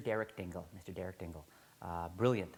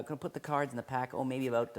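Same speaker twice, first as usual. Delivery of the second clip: put-on Derek Dingle British accent; 3 semitones higher than usual. Teacher imitates Derek Dingle greeting him in a British accent. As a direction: greet them in a chirpy British accent, offering tea. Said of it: "excuse my British accent".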